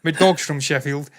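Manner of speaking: slow, broad put-on Yorkshire; mock Yorkshire accent. Owner boasting of his Sheffield dog, slow mock Yorkshire accent. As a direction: lay the Yorkshire accent on slowly. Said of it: "speaking in Sh-, uh, Yorkshire accent".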